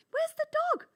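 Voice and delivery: put-on a child missing her puppy; puzzled child. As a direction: ask where it went. Child searching for dog.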